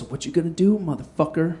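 quiet, calm and threatening; calm menace. Retold or imitated. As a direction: say it softly like a cold threat. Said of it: "very calmly goes".

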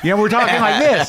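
high-pitched performing voice; showy, projected actor register; on-camera voice. Acted. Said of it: "I'm talking at this level".

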